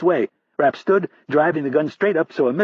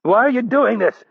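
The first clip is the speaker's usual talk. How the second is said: much higher, loud fearful cry; panicked wail; 12 semitones higher, 5 dB louder than usual. Acted. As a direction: plead in panic. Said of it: "Rapp wailed in a panicked voice".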